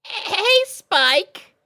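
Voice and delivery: working up courage. Acted. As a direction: blurt it out nervously. Shy Sweetie Belle calls Spike.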